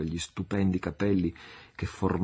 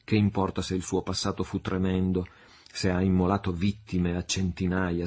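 lightly voiced Marianna, impassioned. Marianna vowing to become Sandokan's wife, ardent. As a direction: swear it with rising passion.

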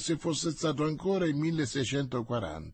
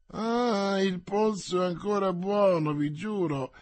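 indignant protest, higher at first; exclaiming; 5 semitones higher than usual. A narrator's reading. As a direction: burst out to defend his strength. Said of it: "esclamò Porthos".

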